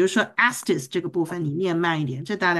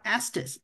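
astes leaned on and drawn out; stress on astes; 7 dB quieter than usual. Shown as a demonstration. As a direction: hit astes, slowly. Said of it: "不要忘记后面是astes".

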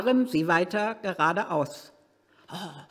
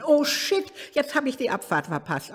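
startled curse; 9 semitones higher than usual. Real, not acted. Driver misses the exit.

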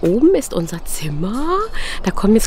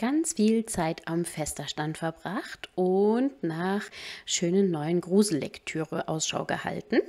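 soft, even recap voice-over; quiet vlog voice-over; voice-over narration; 3 semitones lower, 11 dB quieter, slower than usual. Acted. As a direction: narrate the day back quietly, softer than live chat. Voice-over recap between live clips.

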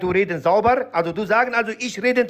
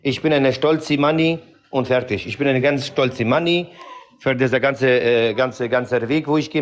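put-on heavy foreign accent, broken grammar; broken-German accent; 4 semitones lower than usual. Character answering the interviewer in broken accented German. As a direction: play a Kurdish immigrant in broken German.

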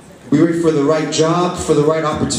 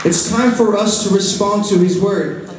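raised-pitch, earnest preaching to a congregation; 3 semitones higher than usual. Real, not acted. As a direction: press the declaration home in measured phrases.

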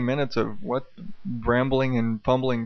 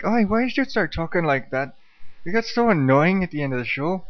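higher-pitched mock complaint from a wife; wife's protest, pitched up; imitating complaining wife; 5 semitones higher than usual. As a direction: lightly mimic a wife's annoyed nagging. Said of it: "she'll be like".

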